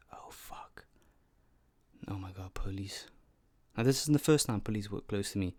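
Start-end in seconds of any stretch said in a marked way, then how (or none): 0.1-3.1 panicked hushed whisper. Retold or imitated. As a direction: breathe it out in alarm. Spotting the police while driving.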